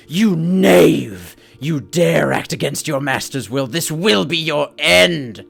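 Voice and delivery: airy voice on the wind. A narrator's reading. The voice on the wind rages at the party. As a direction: threaten the trespassers like an angry master. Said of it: "that airy voice on the wind".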